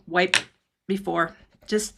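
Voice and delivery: ordinary talk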